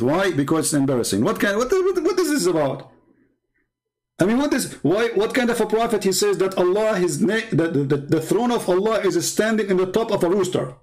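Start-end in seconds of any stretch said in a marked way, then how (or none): 1.2-7.0 incredulous outrage. Real, not acted. Indignant high disbelief.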